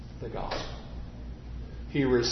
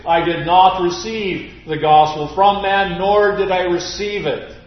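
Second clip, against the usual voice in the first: louder, insistent declaration; emphatic; 3 semitones higher, 7 dB louder than usual. Retold or imitated. Preacher voicing Paul denying he got it from man. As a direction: press each word with conviction. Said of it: "Paul says emphatically".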